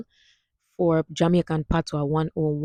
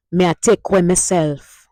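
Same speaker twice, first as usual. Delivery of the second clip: Jamaican Patois sentence; 5 dB louder than usual. Shown as a demonstration. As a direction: demo line in Jamaican Patois. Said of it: "Next one".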